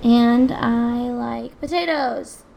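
slow, loud, deadpan intro; slow robotic intro. Acted. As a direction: spell out each word slowly and loudly.

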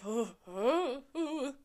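tense little gasped oh, oh, oh; nervous oh sounds mid-episode; anxious oh noises. Retold or imitated. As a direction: gasp out short worried ohs while watching. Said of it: "those are the noises you make during it".

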